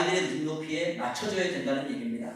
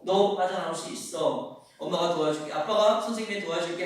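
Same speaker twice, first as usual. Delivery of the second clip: reassuring parent; 2 semitones lower than usual. Pretend. Parent reassuring a struggling child.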